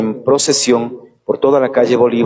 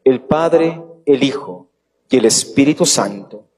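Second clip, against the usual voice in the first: solemn blessing. Acted. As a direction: bless the congregation with ceremony. Priest gives the final blessing. (bendición solemne de sacerdote)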